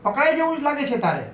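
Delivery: high hissed hush, a touch of panic; hushed scolding. Retold or imitated. Dolly shushing Fiona in the dark, a high mock hush. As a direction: shush her friend fast, mildly scolding. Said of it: "ડોલી એના મોઢે હાથ દબાવી બોલી".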